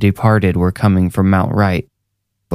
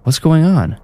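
higher-pitched woman stranger; puzzled woman asking, pitched up; woman's questioning voice; 8 semitones higher than usual. A narrator's reading. Stranger woman asks what is happening, higher voice.

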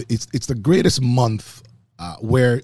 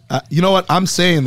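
laughing; 8 semitones higher, 6 dB louder than usual. Real, not acted. Laughing after "shut up" banter.

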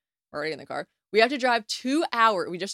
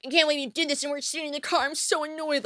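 fast, high, whiny pouting; imagined self pouting in the car, whiny; pouty whine; 8 semitones higher, faster than usual. Retold or imitated. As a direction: sulk it out like a spoiled brat, quickly. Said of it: "pouting, being like".

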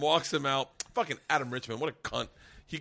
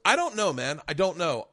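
retold exasperation; 2 semitones higher, 5 dB louder than usual. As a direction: act out a man pushed too far. Blind man pressed in retold quarrel.

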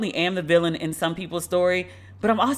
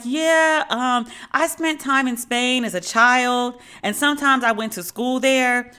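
mock evasive Hilaria; 4 semitones higher than usual. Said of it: "she was like".

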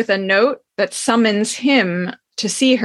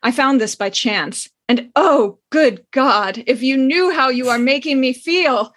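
reading a steamy novel scene aloud, lightly dramatic; story reading; 2 semitones higher than usual. Acted. Host reads a racy book scene to listeners, lightly dramatic. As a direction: give the old romance its due, savouring each line.

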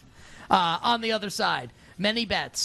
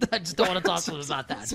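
laughing through the repeated line; real laughter breaking into the words. Real, not acted. To the cohost, repeating herself while laughing.

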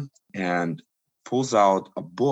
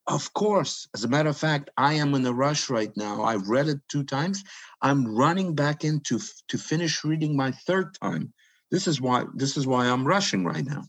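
eager flattery; 5 semitones higher than usual. Retold or imitated. Official eagerly flatters Brezhnev.

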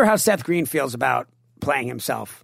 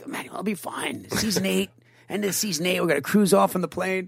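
retold reassurance; 4 dB quieter than usual.

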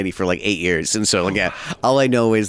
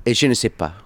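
French on request; 2 semitones higher than usual. Shown as a demonstration. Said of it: "I wanna hear you speak some French".

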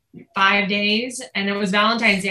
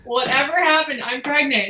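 higher and insistent, pressing the point; 4 semitones higher than usual. Retold or imitated. Wife insisting to husband she's pregnant, higher and insistent. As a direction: tell him firmly you're sure. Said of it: "Like, I'm telling you".

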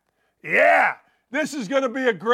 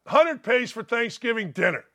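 usual speaking voice

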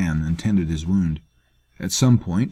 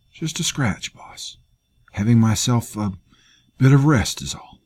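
higher, strained make-light tone; lightly voiced wounded man; 4 semitones higher, 3 dB louder than usual. Dying fighter reassures his boss, higher and strained. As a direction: brush off the wound through pain.

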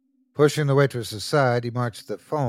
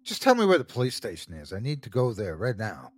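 fast, impatient demand; faster than usual. Acted. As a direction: rush it out, patience gone. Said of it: "Kent lost his patience".

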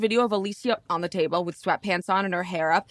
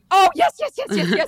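excited recognition; 9 semitones higher, 6 dB louder than usual. Real, not acted.

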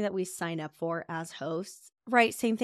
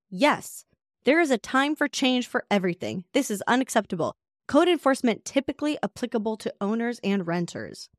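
raised, louder preachy tone; self-righteous renter; 4 semitones higher, 4 dB louder than usual. Retold or imitated. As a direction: lecture like you're on a crusade.

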